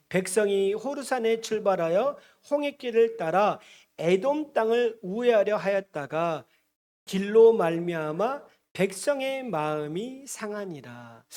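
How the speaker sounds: slow, measured verse reading; scripture reading. Acted. Preacher leading congregation through a verse, measured reading. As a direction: read it out slowly for all to follow.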